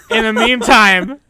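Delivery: high, loud, strained hoarse yell; slow, drawn-out hoarse shout; hoarse cry. Real, not acted. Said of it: "I'm losing my voice from screaming".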